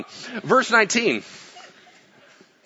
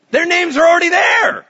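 loud, high preaching cry of joy; excited shout; 13 semitones higher, 8 dB louder than usual. Acted. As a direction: shout it out to the congregation. Preacher exclaims the good news.

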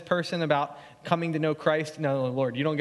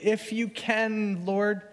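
weak faith plea; 5 semitones higher, slower than usual. Retold or imitated. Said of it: "The man cries out with little faith".

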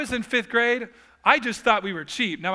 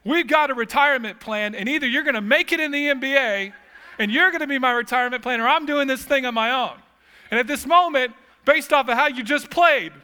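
dad's loud verdict; 5 semitones higher, 4 dB louder than usual. Retold or imitated. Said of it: "my dad's going".

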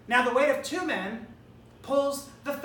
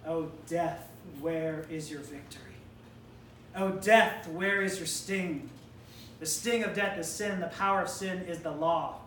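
low, measured scripture reading; solemn Bible recitation; 7 semitones lower, 5 dB quieter than usual. Shown as a demonstration. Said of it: "Verse fifty-five".

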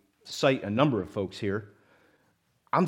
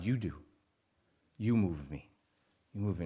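mock voice of God; 5 semitones lower, 6 dB quieter than usual. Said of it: "playing the voice of God".

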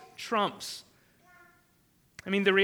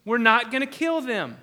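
louder, flat-out no; firm defiant refusal; 5 dB louder, slower than usual. Retold or imitated. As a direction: stand your ground. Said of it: "Hebrew midwives feared God and said".

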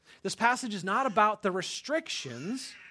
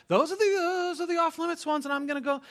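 mock self-righteous voice; 9 semitones higher than usual. Imitating a self-righteous churchgoer.

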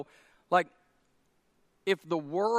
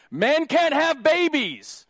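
slow, high, loud declaration; emphatic pulpit proclamation; louder again; 9 semitones higher, 7 dB louder, slower than usual. Real, not acted. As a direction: hammer can't home. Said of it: "I'll say it again".

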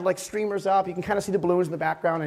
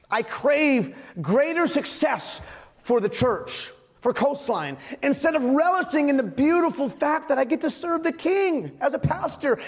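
higher, emphatic pastor's confession; impassioned preaching; 9 semitones higher than usual. Acted. Pastor confessing cravings to his church, impassioned preaching. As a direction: preach the confession with rising fervor.

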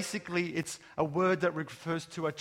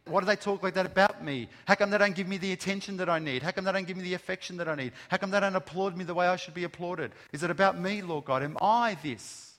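self-pitying complaint; faster than usual. Retold or imitated. Voicing a self-centred complaint.

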